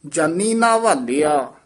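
ਜਾਨੀ ਨਾ ਵਾਲਿਆ with a pressed ਲ in ਵਾਲਿਆ; tightened pronunciation. Shown as a demonstration. Teacher modelling the phrase, firmly pressed ਵਾਲਿਆ. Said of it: "ਕੱਸ ਕੇ ਉਚਾਰਨ ਕਰਨਾ ਹੈ".

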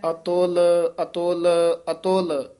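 each ਅਤੁਲ set apart with a short stop; ਅਤੁਲ repeated with distinct stops; measured stops. Shown as a demonstration. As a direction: place a clear halt after every ਅਤੁਲ. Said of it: "ਇੱਥੇ ਠਮਕ ਲਾ ਦੇਣੀ ਹੈ".

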